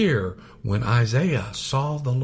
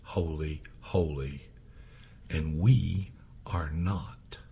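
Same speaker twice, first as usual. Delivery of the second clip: whisper; 3 semitones lower, 7 dB quieter, slower than usual. Real, not acted. Preacher dropping voice for awe.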